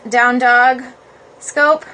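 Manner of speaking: ordinary talk, nothing marked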